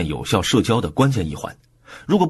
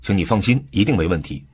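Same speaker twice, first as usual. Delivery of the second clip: "放心" emphasized to reassure; stress on 放心. Shown as a demonstration. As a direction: put the weight on "放心" so they stop worrying. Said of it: "重音放在 “放心” 上". (重音放在“放心”上，让人安心)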